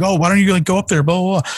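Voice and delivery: high-pitched mocking imitation of bystanders; mimicked patronizing onlooker. People mistake him for a little fan, mimicked in high voice.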